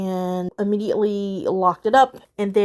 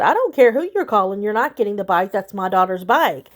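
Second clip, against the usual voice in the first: louder, firm, daring him to argue; firm retold standoff; 5 dB louder than usual. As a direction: plant your feet and tell him off again.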